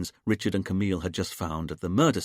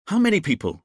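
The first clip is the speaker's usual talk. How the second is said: loud, higher bark; barked question; 8 semitones higher, 7 dB louder than usual. A narrator's reading. Richard interrupting the hypnosis with a loud bark. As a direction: bark it out, far too loud. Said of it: "Richard barked like a seal".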